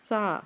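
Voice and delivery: سا with tongue between teeth, no hiss; Arabic tha. Shown as a demonstration. Teacher repeats سا for practice. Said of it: "سیٹی کی آواز نہیں آنی چاہیے".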